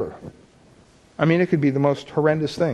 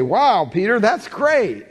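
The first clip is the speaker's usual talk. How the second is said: mock praise; 4 semitones higher, slower than usual. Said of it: "Jesus is gonna say".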